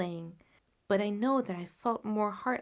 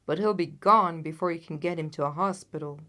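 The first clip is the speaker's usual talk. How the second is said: shouted warning; 3 semitones lower, 6 dB louder than usual. A narrator's reading. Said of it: "shouted another".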